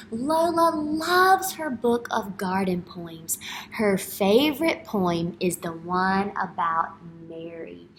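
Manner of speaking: slow, bright read-aloud voice; reading to children. Acted. Teacher reading a picture book aloud to kids. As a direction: read it like storytime, slowly.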